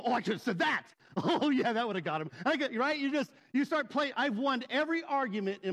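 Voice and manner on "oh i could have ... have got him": hammed-up kicking yourself over a comeback; belated comeback. Replaying a comeback while driving away.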